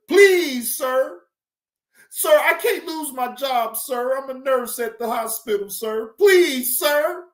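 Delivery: mildly whiny imitation of begging; mock pleading. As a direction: plead in mockery, punching each "please". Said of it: "it went from suing Target to".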